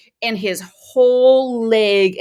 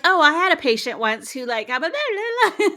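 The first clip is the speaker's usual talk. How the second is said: laughing doctor impression; 8 semitones higher than usual. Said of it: "And he's like".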